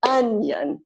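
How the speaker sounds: Onion as UN-yun, first beat strong; stress on first syllable. Shown as a demonstration. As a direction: correct it to UN-yun. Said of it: "stress on the first syllable".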